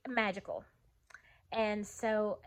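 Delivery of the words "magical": breathy whisper of awe; hushed awe. Real, not acted. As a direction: whisper it like a secret wonder. Dreamy awe about the house.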